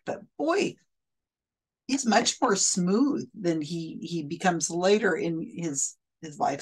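talking through hiccups; speech broken by hiccups. Real, not acted. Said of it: "Sorry, I got the hiccups".

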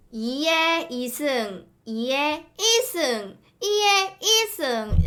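put-on slow Gyeongsang accent drill, rising on the last; 사촌 흉내 경상도 억양; Gyeongsang dialect. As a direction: copy the cousin's Gyeongsang drill slowly. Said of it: "이런 느낌이라고 그러더라고요".

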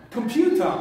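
Computer with the second syllable pu stressed. Shown as a demonstration. Teacher modelling word stress for the class, stressed pu. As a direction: lean on pu in Computer. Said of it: "The stress is on the second one".

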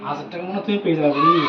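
fast, loud teasing call; teasing shout. Real, not acted. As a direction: rattle it off loudly to tease. Teasing the rival loudly.

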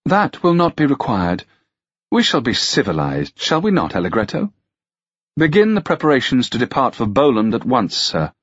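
lightly voiced lady giving orders; composed noblewoman. Narrator voices the commanding lady.

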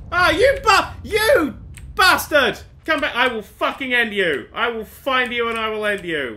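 furious threats. Real, not acted. Player threatening the thing that ran off, furious yelling. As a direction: yell vengeance after a fleeing foe. Yells threats at game enemy.

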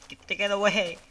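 high, loud panicked no's; frantic cries while being attacked; panicked yelling. Real, not acted. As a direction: yell in alarm as the monster closes in. Mob attacks him in game.

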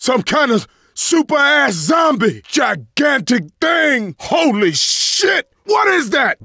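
shouted warning about a monster; urgent, startled callout; alarmed shout. Acted. Alarm at a huge zombie.

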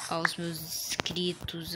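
slow hushed thank-you; whispered farewell. Pretend. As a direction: breathe the thanks out slowly. (despedida sussurrada)

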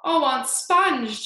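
high, loud, drawn-out plea; child's pleading cry. A narrator's reading. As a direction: call out imploringly, stretching the name. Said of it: "James cried out".

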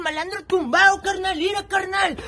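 tough barrio cholo swagger. Acted. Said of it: "Lo que pasa es que ya soy cholo".

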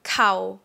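"cow" brief and level; short mid tone. Shown as a demonstration. Teacher models the short vowel in midtone, brief "cow". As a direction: keep "cow" short and flat. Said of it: "Now for midtone".

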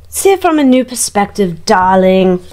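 lightly put-on accent, Camilla's voice in a tarot reading; voicing Camilla's advice in a mild put-on accent. Reader channels Camilla advising William, lightly put-on accent. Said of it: "I don't know where this accent's coming from".

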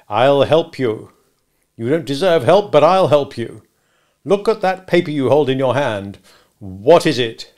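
loud, condescending help; domineering lawyer; bullying cross-examiner. Acted. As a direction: talk down to a floundering witness. Stranger cross-examining Mister Wopsle.

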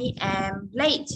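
very slow, each word separate. Shown as a demonstration. Teacher repeats the example very slowly to re-explain. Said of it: "để cô nói lại lý thuyết này".

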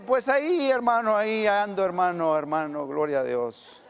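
tired believer answering a cheerful friend, fading; weary reply. Acted. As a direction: shrug it off as it trails down.

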